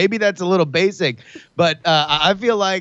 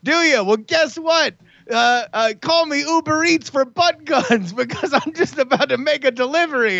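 high, escalating taunt; 6 semitones higher than usual. Acted. Player gloats before his next shot, taunting. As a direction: goad them, climbing higher as you go. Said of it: "And I say".

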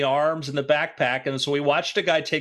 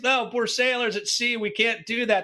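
high-pitched mock indignation; put-on voice of a scoffing sailor; acted indignant refusal; 8 semitones higher than usual. Sailors refusing to pull up at sea, mock indignant.

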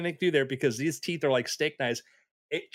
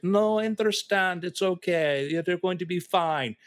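soothing; 4 semitones higher than usual. Retold or imitated. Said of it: "just soothing voice".

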